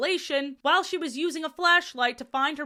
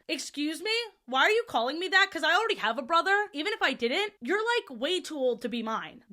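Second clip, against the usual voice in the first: higher, fast sassy Junie B; sassy kid; 4 semitones higher than usual. Retold or imitated. Junie B answering the janitor, sassy and fast. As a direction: talk back like an offended kindergartner. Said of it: "I feel like she'd say".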